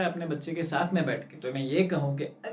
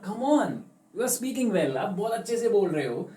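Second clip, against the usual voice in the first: higher, coaxing teacher cheering her on; encouraging teacher; 5 semitones higher than usual. Acted. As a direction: lift the child's courage. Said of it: "और teacher ने कहा".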